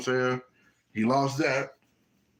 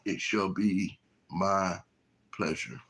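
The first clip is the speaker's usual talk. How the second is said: slow, low, spaced-out words; solemn submission; 5 semitones lower, 4 dB quieter, slower than usual. Acted. Abraham accepting God's command, slow and solemn. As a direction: lower it and let each word land.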